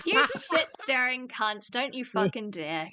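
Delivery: slow, laughing mock insult. Real, not acted. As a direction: scold through laughter.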